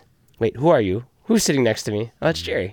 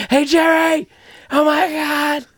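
high excited shout to a brother; yelling across walls; 4 dB louder, slower than usual. Retold or imitated. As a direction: call out loudly through the wall. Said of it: "We were yelling between walls".

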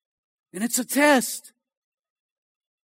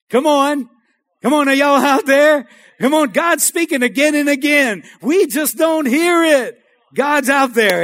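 rousing exhortation; 4 dB louder than usual. Real, not acted. Preacher rousing the congregation.

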